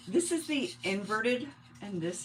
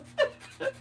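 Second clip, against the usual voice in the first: short giggle. Real, not acted. Laughing after quip.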